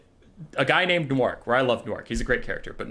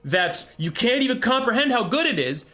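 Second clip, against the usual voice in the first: sarcastic mock awe; 11 semitones higher than usual. Real, not acted. Sarcastic mocking of scheme.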